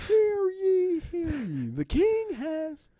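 high, loud royal announcement; town crier. Pretend. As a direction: cry out the king's news. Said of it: "people walking around and be like".

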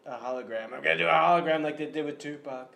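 lightly voiced Donald Trump; a hint of Trump's bluster; Trump impression. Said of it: "President Trump here".

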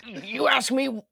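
false start at a gritty impression; Alex Jones. Cohost abandons a Freddy attempt, too close to Alex Jones. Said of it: "too Ag-, Alex Jones".

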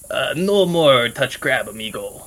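put-on slow broken words, light Spanish accent; lightly voiced Spanish accent; Spanish-accented character. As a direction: warn it slowly like a Spanish-accented friend. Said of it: "I just be like".

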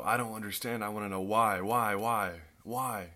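acted pleading why, rising insistence; insistent questioning. Believer in hardship questioning God, insistent mock plea. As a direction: voice a frustrated believer demanding answers.

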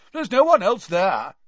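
calling out. A narrator's reading. Diggory calls after Crouch searching the bushes, loud. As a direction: call it across the trees. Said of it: "called after him".

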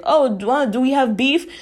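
high, light mock voice asking if there's beef; mock timid guy. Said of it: "they're like".

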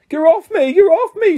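high, loud squeal of a trapped gnome. A narrator's reading. Gnome squealing at Ron to be let go. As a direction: squeal it out, a tiny creature kicking. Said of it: "squealed the gnome".

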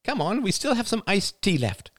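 very high, lilting call; crying out. A narrator's reading. Ethel inviting them back inside, calling out. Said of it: "she cried".

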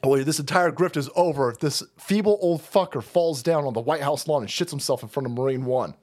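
panicked insider muttering; staffers' voice. Retold or imitated. Aides fretting over the old man, in a low worried mumble. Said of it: "They're like".

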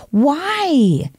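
breathless aghast whisper; whispered why. Real, not acted. Speaker appalled by kids at drag shows, whispered disbelief.

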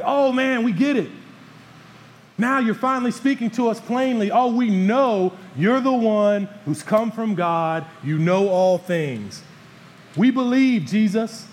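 high, loud, gushing excitement; pumped-up disciples. Retold or imitated. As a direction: gush like a thrilled disciple who finally gets it. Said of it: "they're really excited here".

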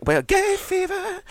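high, slow, camp drawl on gay fever. Pretend. Joking about gay fever, a camp high drawl. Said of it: "it's very camp".

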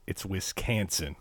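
Wisconsin with a drawn-out flat "can" as in "can't"; corrected local pronunciation. Shown as a demonstration. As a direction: say Wisconsin slowly, middle syllable like "can". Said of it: "I need to make a correction".

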